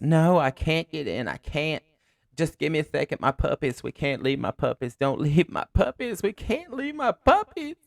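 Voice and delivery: high, loud, drawn-out mock panic; imitated screaming woman. Frantic woman begging her rescuer for her puppies, mock screaming. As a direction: wail it like a frantic woman, pitch climbing. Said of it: "the woman runs out screaming".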